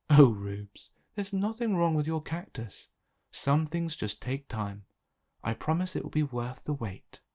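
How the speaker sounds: gently reassuring mother, lightly voiced; reassuring mum. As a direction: reassure a discouraged child. Mum reassures her child.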